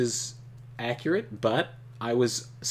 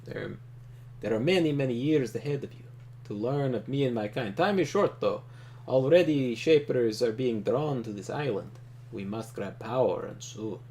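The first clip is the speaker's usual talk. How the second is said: a lightly voiced calm, powerful leader; Trakov voice. Reading Trakov's lines to the player, calm and commanding. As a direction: play him as a composed ruler opening talks.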